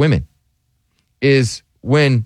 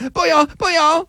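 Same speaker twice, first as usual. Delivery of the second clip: put-on very high squeaky accented voice; hammed-up high Asian accent; mock Asian accent. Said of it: "I'm working on my Asian accent".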